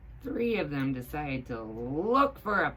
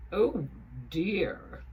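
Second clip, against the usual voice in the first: dismayed hat; 2 semitones higher, 3 dB louder than usual. A narrator's reading. Higgins dismayed.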